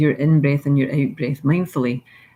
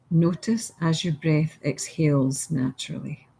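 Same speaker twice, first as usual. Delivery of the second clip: gentle guided meditation reading. Acted.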